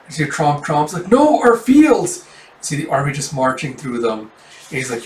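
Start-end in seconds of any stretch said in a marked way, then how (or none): 1.1-2.2 high, loud, drawn-out wail of protest; slow, distressed villager's cry, acted; dismayed cry. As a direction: cry out as your crops are trampled. Villagers see fields being trampled.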